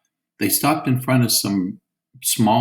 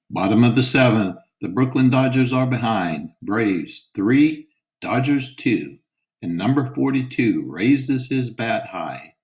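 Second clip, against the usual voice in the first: radio announcer; 3 semitones higher than usual. Acted. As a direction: call the game over the radio. Radio announcer calling the game.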